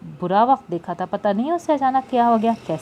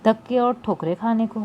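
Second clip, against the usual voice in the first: mild sorrowful sigh, slowing in the middle; a touch of weary grief; understated sad lament; 3 semitones higher than usual. Acted. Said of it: "फिरदौस ने आह भर के कहा".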